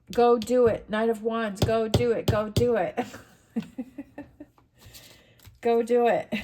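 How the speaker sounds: loud, punchy call to action; loud urging. Real, not acted. Tarot reader shouting at viewers to go act, loud. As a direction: cheer them on to go do it.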